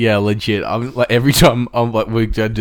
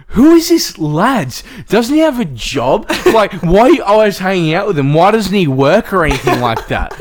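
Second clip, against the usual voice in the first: higher, louder scolding mum voice; mock angry mum; 10 semitones higher, 5 dB louder than usual. Mum grilling her son about lads, mock angry high voice. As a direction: play the mum fuming about the lads, pitched up. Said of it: "she got so mad".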